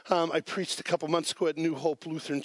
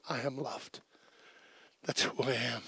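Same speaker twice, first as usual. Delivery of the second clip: hushed, low retelling of her worship; tearful affirmation, retold; 3 semitones lower, 6 dB quieter than usual. Preacher voices grieving woman still worshipping, hushed and reverent. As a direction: say it softly and low, as her private conviction. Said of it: "Tears coming down her face".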